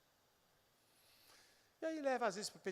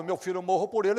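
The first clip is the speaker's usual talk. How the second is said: mock doting vow, louder; gushing mother quote; 5 semitones higher, 9 dB louder, much faster than usual. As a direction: repeat her grand vow mockingly. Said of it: "Quando ela falou".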